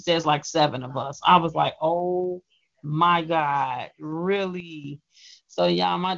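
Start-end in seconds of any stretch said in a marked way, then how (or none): 1.8-5.0 drawn-out slow disbelief; amazed. Retold or imitated. Telling listeners how he reacted to seven fans, amazed. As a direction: stretch it out in wonder.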